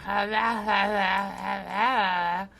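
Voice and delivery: long drawn-out mock babble; imitated garbled noise. Co-host imitating their own botched reading, garbled noise. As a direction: imitate a tongue-tied blabber, stretched out. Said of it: "still was like".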